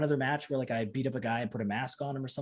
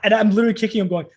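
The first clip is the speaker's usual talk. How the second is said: normal talking voice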